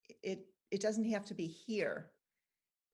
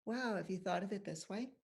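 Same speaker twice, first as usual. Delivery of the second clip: gently curious, rising question. Shown as a demonstration. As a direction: ask it with open curiosity. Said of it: "ask it with curiosity".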